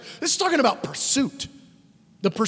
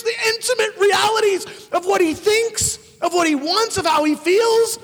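higher, near-shouting wonder; amazed preaching; 9 semitones higher than usual. Real, not acted. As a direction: break out in real astonishment.

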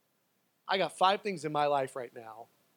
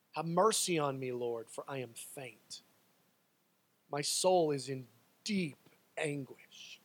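faint anguished plea; 3 semitones lower than usual. Acted. Psalmist begs the Lord for mercy, faint and anguished.

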